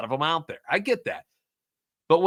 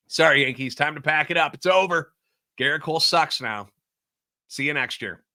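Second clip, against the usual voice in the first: sarcastic. Pretend. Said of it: "I'm being a sarcastic ass right now".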